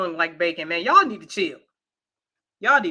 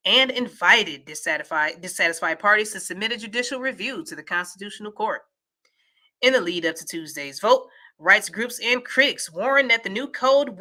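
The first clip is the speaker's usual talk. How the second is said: steady, measured read-aloud; newsreader-style delivery; news article read. Acted. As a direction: read the report out evenly.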